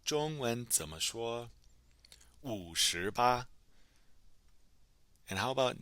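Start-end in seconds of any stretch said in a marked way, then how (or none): 2.4-3.5 slowly, syllable by syllable; slow model pronunciation. Shown as a demonstration. Teacher answering how to say fifty-eight, slow model pronunciation. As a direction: draw it out for learners to copy.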